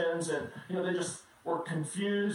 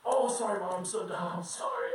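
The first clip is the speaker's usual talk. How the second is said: put-on sheepish kid voice. Kid apologizing.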